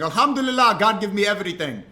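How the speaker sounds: put-on high, loud accented victory shout; imitated triumphant fighter. Fighter thanking God after beating McGregor, exultant imitation. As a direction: proclaim it like a champion on the microphone.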